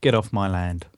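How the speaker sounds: West Country farmer growl, Get off my land; grumpy rural West Country accent. Acted. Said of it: "You can't do that in a West Country accent".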